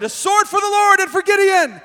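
rally with a shout for the Lord; loud triumphant war cry; shouted battle cry. Retold or imitated. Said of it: "they shouted".

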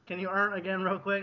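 quiet and breathless after laughing; after laughing hard. Real, not acted. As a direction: still catching breath from laughter. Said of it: "I need to compose myself".

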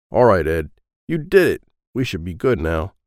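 loud gruff car thief; tough guy voice. Acted. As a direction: bark it at your partner. Felipe barks at Ed.

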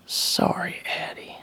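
soft, breath-only voice; subdued apology. Acted. Husband snapped out of it, apologising to wife, hushed. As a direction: apologise quietly, almost whispering.

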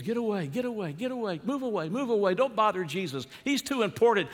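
high, hurried shooing voice; shooing disciples. Retold or imitated. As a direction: shoo the kids away, bossy. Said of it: "when they were telling the kids".

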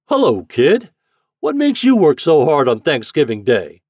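loud, high hail across water; hearty long-distance shout; shouting captain. A narrator's reading. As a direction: holler like a boat captain through a megaphone. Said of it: "shouting through a great trumpet".

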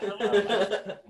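a touch of a showy greeting; bursting through the doors greeting; Wayne's World entrance. Retold or imitated. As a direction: burst in with a cheesy hello. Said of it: "the old Wayne's World where you open both doors".

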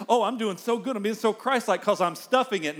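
mock the smug believer patting himself on the back; smug self-praise. Preacher mocking a believer proud of stuffing anger, smug. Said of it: "you just think".

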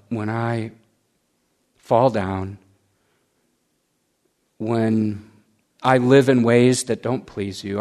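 low, measured prayer in short phrases; leading prayer. Real, not acted. Preacher leads listeners in a silent salvation prayer, low and earnest. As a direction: pray it earnestly, pausing for others to follow.

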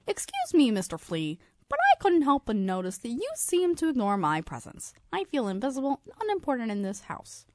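high squeaky little fly. Acted. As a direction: pipe up like a tiny insect. Fly voiced in the story.

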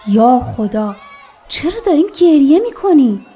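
mild cry of alarm, pitch jumping on the question; a touch of panicked fussing; alarmed outcry. Acted. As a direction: exclaim in dismay at finding friends crying. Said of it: "انقدر داد و هوار نکن".

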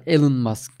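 Elon said "E-lın"; reduced second vowel. Shown as a demonstration. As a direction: say Elon with a short ı in the second syllable. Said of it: "telaffuzlara çok takılmayalım".

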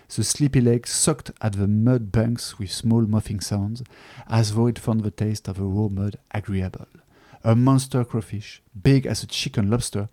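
slow, careful English read with a French accent. Shown as a demonstration. Book reviewer reading the English original aloud to viewers, in a French accent. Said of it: "Pardonnez mon accent".

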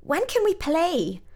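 put-on high, drawn-out toddler voice; slow, high-pitched child's complaint; scowling toddler. A narrator's reading. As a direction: whine it like an impatient small boy. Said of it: "Her toddler son Fritz scowled".

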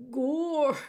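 shouting. A narrator's reading. Meg shouting her surprised answer. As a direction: blurt it out with a shout. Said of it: "shouted Meg".

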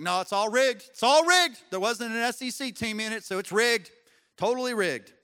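loud, hammed-up sore-loser protest; mock outrage. Pastor imitating Southern fans on the championship, mock-outraged.

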